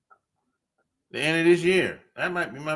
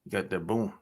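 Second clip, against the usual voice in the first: usual speaking voice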